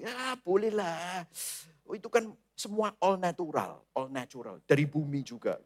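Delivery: devil's lazy, soft reassurance; indulgent permission. Acted. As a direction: wave it through like a lenient friend.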